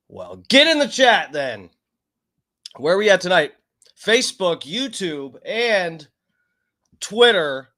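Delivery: hype host. Acted. Hyping the chat.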